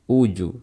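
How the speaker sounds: "uju" with the j bouncing into an u-like sound; dhammah-like bounce. Shown as a demonstration. Teacher showing a faulty bounce, u-tinted qalqalah in "uju". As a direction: echo the u faintly after the j in "uju". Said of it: "suara qalqalahnya mirip dhammah".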